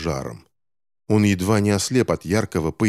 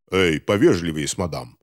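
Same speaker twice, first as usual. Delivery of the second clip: a touch lower, frowning tone; gruff reproach; 3 semitones lower than usual. Acted. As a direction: grumble a rebuke at the officer. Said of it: "хмуро сказал". (хмурое замечание)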